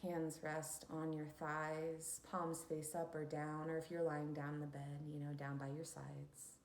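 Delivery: unhurried instructions for settling into stillness; guided meditation. Acted. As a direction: lead listeners into calm, leaving long pauses.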